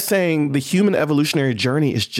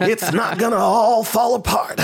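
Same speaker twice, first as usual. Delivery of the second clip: projected for the back row; 9 semitones higher than usual. Shown as a demonstration. Told to reach the back row, projected and emphatic. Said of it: "For the people in the back row".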